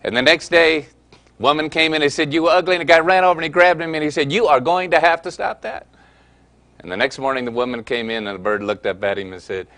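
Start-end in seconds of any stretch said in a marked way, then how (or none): 2.3-2.8 parrot squawk. Acted. Parrot insults customer again. 4.3-5.9 stern owner. Acted. Shop owner scolds bird.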